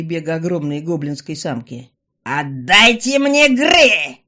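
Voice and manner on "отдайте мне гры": loud, very slow yell. A narrator's reading. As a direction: bellow the demand. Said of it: "вдруг заорала она".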